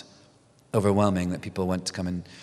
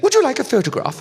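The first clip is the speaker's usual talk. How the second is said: high, louder, laughing mock-sweet offer; Miriam's sly offer; 5 dB louder, faster than usual. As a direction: tease the kids with an offer. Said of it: "she's like".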